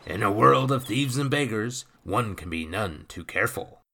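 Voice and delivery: put-on gruff, loud old sea dog; rough pirate voice. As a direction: growl it like a salty pirate. The speaker's rough sailor voice.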